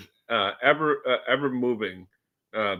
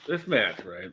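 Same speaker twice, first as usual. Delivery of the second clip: ordinary delivery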